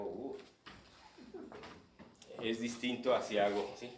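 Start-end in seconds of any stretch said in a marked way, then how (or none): 0.0-0.4 a short curious "uh" at a passer-by; head-led, rational little uh; interested uh. Shown as a demonstration. Acting teacher demoing a head accent, a short uh. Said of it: "la miro pasar y hago".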